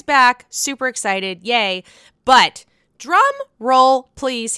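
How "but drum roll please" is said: slow, loud build-up to the news; drum roll build-up. Acted. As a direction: tease the big reveal. Announcing big news.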